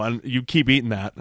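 speaking through a mouthful; chewing while talking. Real, not acted. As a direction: mouth full of brownie. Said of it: "I'm eating a brownie".

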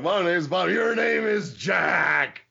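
drill-sergeant orders, slow and emphatic; a hint of a Marine drill instructor laying down the law; Sergeant Slaughter impression. The host retells Sarge renaming the interviewer in a slow drill sergeant bark. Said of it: "Slaughter impersonation".

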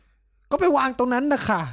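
high, very slow sarcastic drawl; mock curt nurse. Friend imitates nurse brushing off his question, sarcastic. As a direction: stretch the nurse's snippy answer.

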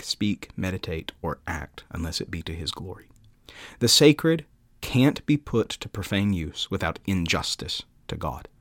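measured devotional reading, building then settling; solemn quote reading. Acted. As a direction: read it out like a heartfelt creed, with deliberate pauses. Reads Calvin quotation aloud.

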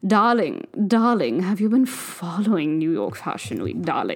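light posh drawl, slow, darling after darling; a hint of a snooty fashion editor; lightly voiced posh fashion insider asking her friend; posh fashionista accent. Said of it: "I'm done with that accent".

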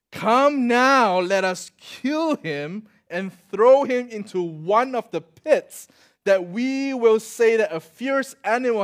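loud, slow, menacing declaration; plotting brothers. Acted. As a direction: proclaim the murder plot like villains. Brothers plot to kill Joseph.

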